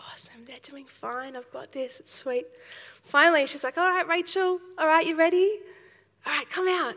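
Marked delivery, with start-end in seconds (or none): 0.1-2.5 soft, confident whisper to herself; whispered thought. Retold or imitated. Inner thought waiting her turn. 3.8-7.0 higher, louder teacher voice calling her out; swim teacher calling. Retold or imitated.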